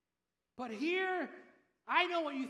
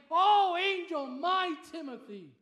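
pastor's greeting; 4 semitones higher, 9 dB louder, slower than usual. Retold or imitated. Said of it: "he blesses my heart to hear him say".

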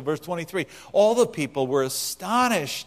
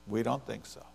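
much softer, lower repeat of "We don't think so."; quiet echo; 5 semitones lower, 12 dB quieter than usual. Retold or imitated. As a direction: drop it to an aside. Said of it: "echo, dropped quiet".

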